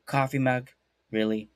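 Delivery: lightly voiced mom, dropping low on the last word; unimpressed mom. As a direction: question it like a sceptical mother. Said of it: "Mama Panther went like this".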